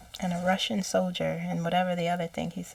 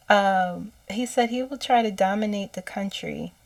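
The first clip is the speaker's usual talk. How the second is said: ordinary talk, nothing marked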